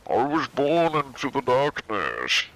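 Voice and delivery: high, slow voice as if into a coffee cup; theatrical masked-villain impression; Bane. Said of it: "Bane is talking into a coffee cup".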